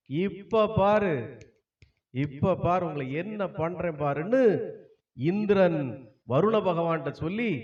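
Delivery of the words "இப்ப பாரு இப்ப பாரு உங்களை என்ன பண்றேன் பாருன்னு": slow threat. Acted. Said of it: "இந்திரனுக்கு வந்ததே கோபம்".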